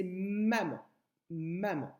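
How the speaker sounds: "maman" with the first m held long; drawn-out initial M. Shown as a demonstration. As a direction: hum into the m of "maman" before the vowel. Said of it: "mais le son d'attaque".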